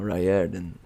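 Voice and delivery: Riordan settled as RYE-er-dan, falling; correcting Riordan. Shown as a demonstration.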